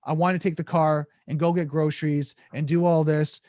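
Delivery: overloaded request. Shown as a demonstration. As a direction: pile the requests into one breath. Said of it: "If you give them multiple things".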